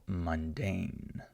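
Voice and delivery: "mundane" with a light first syllable and long DANE; stress on second syllable. Shown as a demonstration. Teacher shows learners an unstressed short U, second syllable stressed in "mundane". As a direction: stretch the DANE in "mundane", keep MUN light.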